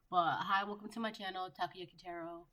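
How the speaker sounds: blocked nose, a bit congested; stuffy nose. Real, not acted. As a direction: talk through a stuffy nose. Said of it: "I'm so stuffy".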